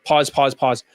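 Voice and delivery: low droned imitation of halting talk; low, even, mock drone; mock monotone speaker. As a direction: lightly mimic a monotone talker. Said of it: "That's how they fucking speak".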